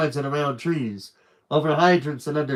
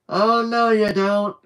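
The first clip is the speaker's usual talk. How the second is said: high loud cry; 7 semitones higher, 4 dB louder than usual. Acted. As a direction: cry out in alarm. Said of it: "cried Bugs".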